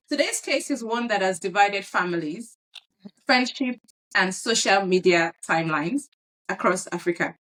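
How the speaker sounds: news anchor read; newscaster voice. Acted. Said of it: "why are you sounding like a newscaster".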